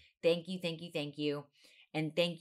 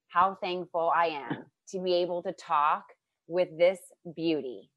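nervously reading love poem; 3 semitones higher, 6 dB louder than usual. Acted. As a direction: declaim a gushing poem to your guest. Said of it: "Can I read you my poem now?".

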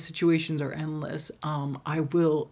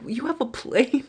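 much higher, louder you have a plane; shocked question; 9 semitones higher, 4 dB louder than usual. Retold or imitated. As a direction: gasp it in disbelief.

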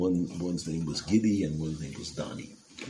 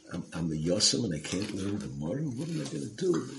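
mildly whiny plea, pitch climbing at the end; retold tearful plea; 4 semitones higher than usual. Crying orphan tells his mother he can't learn Gemara, mock-tearful plea. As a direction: imitate a crying boy, rising into a high last question. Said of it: "he starts crying".

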